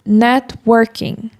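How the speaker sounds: networking, English way, slow, NET-work-ing. Shown as a demonstration. Teacher modelling networking the English way. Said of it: "a pronúncia original seria networking".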